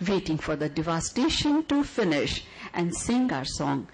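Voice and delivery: measured, lyrical poem reading; poetry recital. Acted. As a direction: read it like a love letter to the audience.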